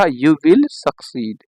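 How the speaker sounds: drawn out, word by word; very slow dictation. Shown as a demonstration. Teacher repeats the second sentence for students, very slowly. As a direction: stretch every word for the class to write down.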